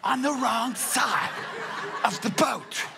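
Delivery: high, slow, laughing whisper that grows to a cackle; sniggering fish hiding from the nets; giggling fish. Acted. Fish under the boat mocking the fishermen, giggling high. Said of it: "there are fish under there going".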